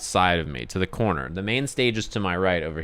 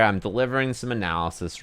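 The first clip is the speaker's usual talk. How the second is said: ordinary talk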